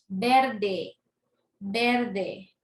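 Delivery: "Verde" with the force on the first syllable, VER-de; teacher sounding out VER-de to show its stress. Shown as a demonstration. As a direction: lean on VER in each "verde". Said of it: "la fuerza la tiene en ver".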